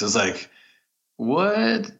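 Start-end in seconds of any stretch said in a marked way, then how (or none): 1.2-1.9 very high, drawn-out incredulous what; exaggerated high-pitched surprise; mock disbelief. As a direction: squeak it out in acted astonishment. Acting out a viewer's disbelief.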